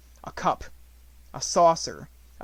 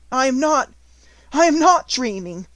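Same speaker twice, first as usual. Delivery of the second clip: much higher and louder, ringing out; ecstatic cry; 11 semitones higher, 10 dB louder than usual. Acted. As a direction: shout it in pure joy. Ecstatic realization.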